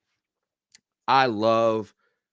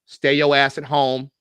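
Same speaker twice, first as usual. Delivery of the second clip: mock dismissive official; 6 dB louder than usual. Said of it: "they was like".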